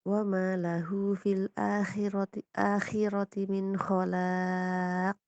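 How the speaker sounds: slow, drawn-out tilawah; slow Quran recitation. Shown as a demonstration. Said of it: "Tadi terdengarnya kan khalaqo". (tilawah pelan dan panjang)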